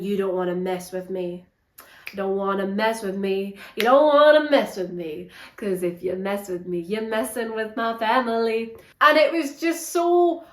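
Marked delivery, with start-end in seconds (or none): 0.0-3.6 a hint of a menacing thug, quieter; lightly voiced hard man, low-key threat; mock tough guy. Reviewer mocking the Viking's tough talk, lightly voiced. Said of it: "the Vikings acting all really tough". 3.8-8.7 leaning into the threat a bit harder; lightly hammed-up hard man pressing the point; mock tough guy. Reviewer mocking the Viking's threat, slightly pushed. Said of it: "the Vikings acting all really tough".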